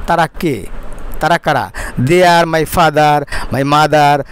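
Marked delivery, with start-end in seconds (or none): 2.0-4.2 very slow, careful English reading; slow model reading. Shown as a demonstration. Teacher reading the sentence slowly to students. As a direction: read it word by word for the class. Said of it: "slow model reading of English".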